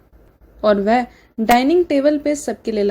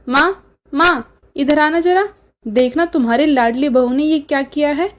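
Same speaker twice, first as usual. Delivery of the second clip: calling out; 3 semitones higher than usual. Acted. Kajal calling her mother to complain, mock shout. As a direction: call for mother across the house. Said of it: "काजल चिल्लाते हुए बोलती है".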